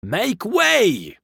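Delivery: high, drawn-out call; crying out. A narrator's reading. Men clearing the road for a cab, crying out. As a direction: cry out for room to pass. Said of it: "cried the man all about him".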